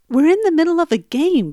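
firm, factual statement of the obvious; matter-of-fact. Retold or imitated. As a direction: state it like a rule, no debate. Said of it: "very matter-of-factly".

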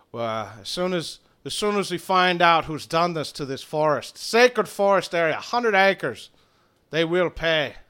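lightly voiced vengeful druid; building Irish-accented vow; stern Irish druid. Druid vowing revenge for burned forest, mildly stern.

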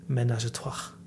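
a fuller put-on French accent. Shown as a demonstration. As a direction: say it like a Parisian, suave. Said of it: "Get into the French accent".

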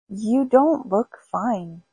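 slow widow voice. Acted. Widow scolds dead husband.

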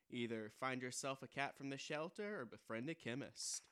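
deadpan news delivery; late night news read. Acted. Reads joke headlines.

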